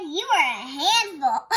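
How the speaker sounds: sweet line breaking into giggles; giggly child. Acted. Betty tells her mother something nice, giggling. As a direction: giggle it out proudly. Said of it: "say something especially nice".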